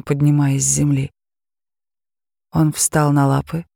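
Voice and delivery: ordinary delivery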